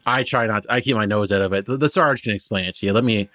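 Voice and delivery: lightly voiced cheerful halfling guide; a hint of an eager shepherd halfling, chatty; friendly halfling Benji. Halfling guide explaining his band to the travelers, lightly voiced.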